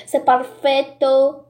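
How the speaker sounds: slow, savoured Spanish accent on perfecto. Shown as a demonstration. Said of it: "Quand t'as bien l'accent espagnol". (accent espagnol appuyé, lent)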